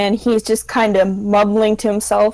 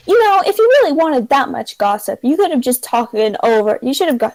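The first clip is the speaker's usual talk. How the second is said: bartender voice; 4 semitones higher than usual. Acted. Bartender sighs, replies.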